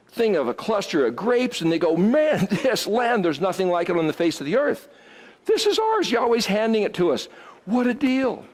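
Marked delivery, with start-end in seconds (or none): 2.0-8.4 eager, rising joy over the promised land; excited spies. Retold or imitated. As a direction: sell it like the deal of a lifetime.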